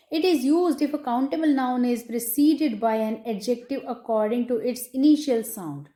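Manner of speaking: slow, deliberate dictation pace; dictating a rule. Shown as a demonstration. Teacher dictating a grammar rule to students, slow and measured. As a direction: read it out word by word so students can write.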